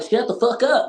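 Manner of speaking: messing with him, pitch jumping up; mock comeback. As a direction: fire back in a high, teasing voice. Retold comeback, mocking the sergeant.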